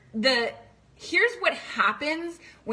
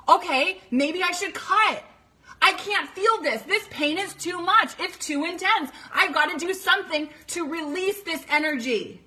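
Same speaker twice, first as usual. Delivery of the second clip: put-on higher, strained voice of a hurting teen; distressed girl; 6 semitones higher than usual. Daughter in crisis thinking aloud, higher and strained. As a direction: voice a girl overwhelmed by pain.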